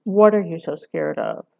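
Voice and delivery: pointed question, lightly pressed; pointed, direct. Retold or imitated. Lecturer replays her sharp attack question, pointed and direct. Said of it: "a very pointed, very direct".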